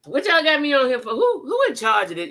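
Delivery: mocking confused man. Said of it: "instead of".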